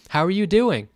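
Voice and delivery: mock chummy salesman hello; grinning car salesman. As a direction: put on a big salesman grin. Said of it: "greets me with an extremely huge grin like a car salesman".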